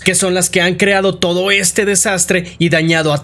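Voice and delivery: animated storytelling, pitched above the chatty voice; dramatic game-recap narrator; story narration. A narrator's reading. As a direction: recount a dark tale with emphatic flow.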